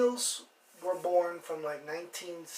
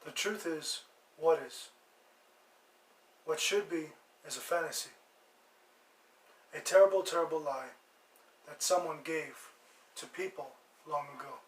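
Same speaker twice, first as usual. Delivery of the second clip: measured recital with long pauses; quotation recital. Acted.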